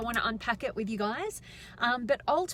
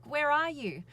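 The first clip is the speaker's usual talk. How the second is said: retold frantic question, a little higher; mildly frantic; 4 semitones higher than usual. Granny phoning her late lift, mildly frantic. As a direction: lightly imitate someone flustered and chasing. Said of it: "she was kind of a bit frantic".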